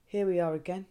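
fed-up inner grumble, barely voiced; muttered exasperation. To herself when her son asks if her dad is cool, muttered. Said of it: "And I'm like".

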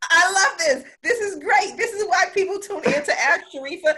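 high, bright excited burst, pitch way up; thrilled host raving about the show; delighted. Real, not acted. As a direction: gush with real delight at the advice. Delighted by host's advice.

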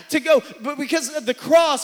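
preaching shout, suddenly loud; full-throated pulpit shout. Real, not acted. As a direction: call it out hard to the crowd. Preacher building to a climax.

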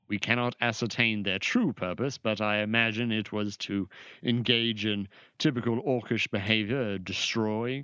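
lightly voiced lofty official explaining; a hint of a haughty mage, listing with measured pauses; formal sorcerer.

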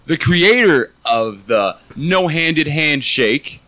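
high, stretched-out announcer build; ring announcer introduction. Pretend. Host introducing Chris the co-host, big announcer voice. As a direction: draw the name out like a ring announcer.

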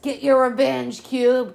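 loud cheer at the screen, urging him on; cheering loudly. Real, not acted. Viewer cheering a rapper-turned-actor on in the film, loud shout. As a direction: yell it at the screen like a fan.

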